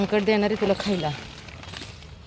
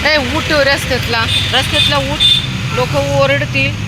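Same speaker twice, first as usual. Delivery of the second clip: calling a pet; 7 semitones higher than usual. Real, not acted. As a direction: shoo the dog off the road, urging. Telling dog to get off road.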